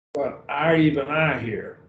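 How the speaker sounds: "I" set off and emphasised, then repeated in "even I"; stress on I. Shown as a demonstration. Teacher showing Greek students an emphatic rendering, stress on "I". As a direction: lean on both words "I", pausing after the first. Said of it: "render this to show the emphasis".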